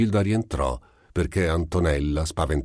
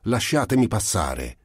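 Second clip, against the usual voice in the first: higher, mildly raised shout; 5 semitones higher than usual. Acted. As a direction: demand to be let through. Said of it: "La Gilda gridò".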